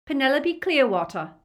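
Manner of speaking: put-on high, loud, frightened girl; terrified but trying to convince. A narrator's reading. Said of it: "She sounded terrified, but convincing".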